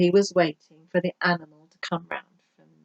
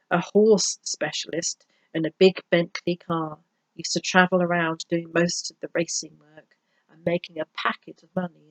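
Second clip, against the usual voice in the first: measured, expressive audiobook reading; story narration. A narrator's reading. Vet telling of his horseman colleague, story narration. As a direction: read the story out with lively emphasis.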